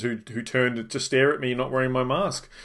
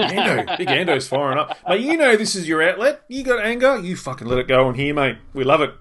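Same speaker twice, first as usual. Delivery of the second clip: excited hype-up; 5 semitones higher, 6 dB louder than usual. Real, not acted. Host hyping up angry guest.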